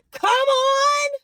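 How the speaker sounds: shrieking high praise shout; high excited cry. Real, not acted. Recalling church, she cries out in a high loud shout.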